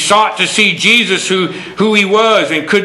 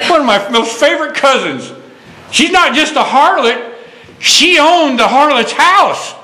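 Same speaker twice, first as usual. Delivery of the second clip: imitating brother; 10 semitones higher than usual. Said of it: "She goes".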